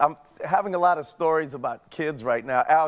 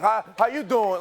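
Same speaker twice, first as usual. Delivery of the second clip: higher, mock-standoffish Brooklyn accent; standoffish Brooklyn greeting; 4 semitones higher than usual. Showing how strangers answer a greeting, standoffish Brooklyn accent. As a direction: greet them like a wary Brooklynite. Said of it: "it's a real kinda standoffish thing".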